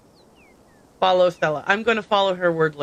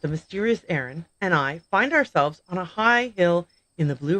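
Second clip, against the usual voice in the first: vlog intro; 2 semitones lower than usual. Acted. Stella films her vlog opening, in host voice. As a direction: present the hunt like a documentary host.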